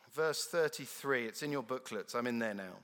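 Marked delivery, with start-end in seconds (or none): none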